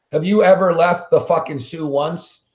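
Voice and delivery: teasing laugh while asking; laughing mockery. Real, not acted. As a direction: laugh through the taunt. Mocking a chatter, laughing.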